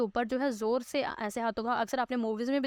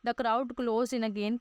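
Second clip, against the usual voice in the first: very slow reading aloud; much slower than usual. Shown as a demonstration. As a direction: spell the English out slowly, word by word. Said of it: "teacher reads the English text".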